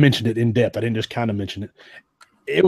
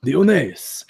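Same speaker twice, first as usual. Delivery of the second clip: Latin accent; slower than usual. Shown as a demonstration. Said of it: "Oh, you sound Spanish".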